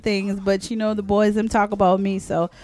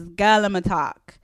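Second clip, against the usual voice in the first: put-on slow, lightly Jamaican patois song title; Jamaican patois attempt. Shown as a demonstration. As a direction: try the song title in a Jamaican patois accent. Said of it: "My patois wasn't that bad".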